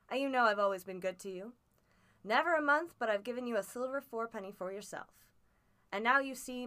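put-on coaxing his boy as a worn-out old sailor; old sea captain. Captain voiced in read story.

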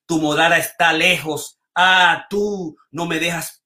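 measured, lyrical reading with lingering pauses; poem reading. Acted. Host reads Darío Tejeda's poem aloud, lyrical and unhurried.

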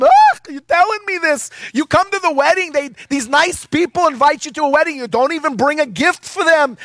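very high, loud scolding mother voice; mother scolding her son at the wedding, high and loud; nagging Jewish mama. Retold or imitated. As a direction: nag your son like an overbearing Jewish mom. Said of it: "Pam does it better than me".

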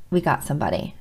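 a low secret whisper, barely voiced; hushed whisper. Administrator whispering to the counselor that help is found. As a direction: whisper the good news softly, like a secret. Administrator breaks the good news.

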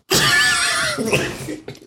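very high, voiceless squeal of laughter. Acted. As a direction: let out a high wheezing laugh. Reacts to the crude joke retold.

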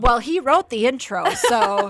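teasing, loud and laughing. Real, not acted. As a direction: tease him through laughter.

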